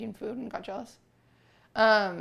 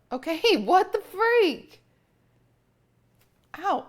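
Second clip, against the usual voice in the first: laughing yelp; 9 semitones higher, 8 dB louder, slower than usual. Real, not acted. Cat fights grooming.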